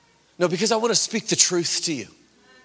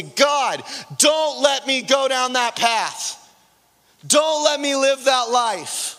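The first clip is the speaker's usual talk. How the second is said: raised, slow, pleading cry out; guttural cry to God; 6 semitones higher, slower than usual. Retold or imitated. Preacher reliving his desperate cry to God, raised and pleading. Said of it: "I just begin to gutturally cry out and say".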